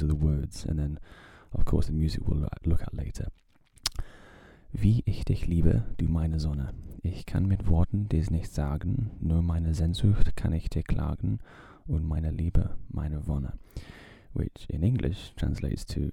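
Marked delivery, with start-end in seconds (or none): 4.7-13.5 reading a German love poem aloud in a careful German accent. Shown as a demonstration. Podcast host reads Mahler's love poem to listeners in a German accent. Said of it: "say it in a, in a good German accent".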